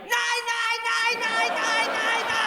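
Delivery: very high, loud mechanical beeps; alarm beeping. Retold or imitated. Racist alarm clock going off, very high beeping. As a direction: beep like a shrill alarm clock. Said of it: "it'll just go off like".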